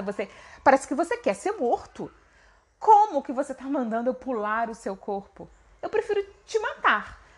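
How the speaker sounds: Bima irritado, desafiando o macaco; Bima bravo. Acted. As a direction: ameace o macaco com raiva contida. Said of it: "Você tava aí todo bravo". (Bima ameaça o macaco, bravo e impaciente)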